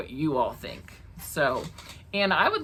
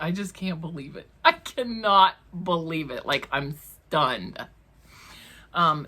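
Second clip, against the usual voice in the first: ordinary talk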